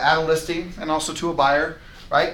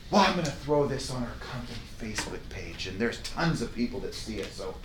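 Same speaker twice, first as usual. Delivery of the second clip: soft, lowered hedge; timid excuse; 5 semitones lower, 9 dB quieter than usual. Retold or imitated. Agent stalling the seller with a soft hedge. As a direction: stall meekly. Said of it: "you do things like".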